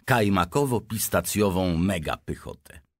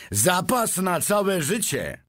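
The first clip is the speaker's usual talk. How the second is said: high, drawn-out envy; envious; 13 semitones higher, slower than usual. A narrator's reading. Onlooker marvels at the lifetime supply, envious. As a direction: stretch it out enviously. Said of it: "z zazdrością w głosie".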